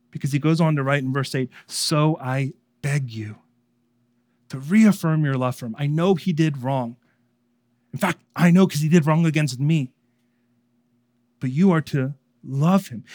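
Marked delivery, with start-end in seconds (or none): 1.7-13.0 begging. Acted. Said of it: "he begs it".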